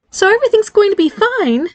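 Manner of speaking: climbing pitch, forced cheer; voice getting high. Acted. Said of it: "The pitch of her voice was getting high".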